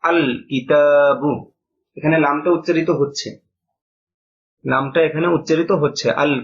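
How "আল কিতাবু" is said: আল কিতাবু drawn out slowly, the lam of আল clearly sounded; deliberate teacher demo of আল কিতাবু with a distinct lam; slow pronunciation demo. Shown as a demonstration. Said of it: "তাহলে উচ্চারণ হচ্ছে".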